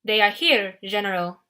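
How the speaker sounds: put-on lightly French-accented, stiff and formal; a hint of a French accent, bowing to the general. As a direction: subtle French accent, reporting eagerly. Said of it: "spoke in his weird French accent".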